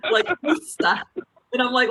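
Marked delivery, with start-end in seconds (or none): 0.4-1.0 high-pitched "Worcester" as WOOS-tah; amused, high WOOS-tah for "Worcester"; local Boston pronunciation. Retold or imitated. Wrestler baffled by local spelling, "Worcester" high as WOOS-tah. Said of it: "I heard somebody call it".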